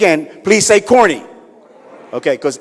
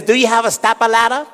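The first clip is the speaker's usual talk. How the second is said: high character voice; 8 semitones higher than usual. Acted. Guy asks bartender.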